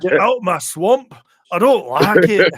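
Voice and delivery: high, loud, slow mock Shrek shout; hammed-up swamp yell, high; mock ogre line. Friend mocks actress playing Shrek, high loud shout. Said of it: "And she's like".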